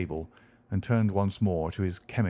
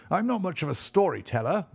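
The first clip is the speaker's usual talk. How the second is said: higher, a touch nervous; shy visitor, slightly unsure; nervously; 8 semitones higher than usual. Acted. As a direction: Cubitt nervously apologising to Holmes.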